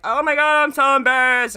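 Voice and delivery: high, loud, squealing fluster; flustered Henry. Retold or imitated. Streamer voicing Henry caught by Walter, loud high embarrassed squeal. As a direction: play Henry mortified and squeaking. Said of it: "And Henry's like".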